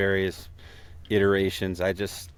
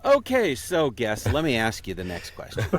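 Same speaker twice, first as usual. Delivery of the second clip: imitating co-host; 3 semitones higher than usual. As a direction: stretch the opening like a host regaining control. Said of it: "Mitch just stares at me and goes".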